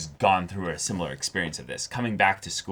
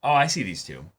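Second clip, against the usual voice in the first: higher, louder playful Fuko imitation; Fuko's voice; 5 semitones higher, 6 dB louder than usual. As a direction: insist like a cheeky little ghost. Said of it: "she's like".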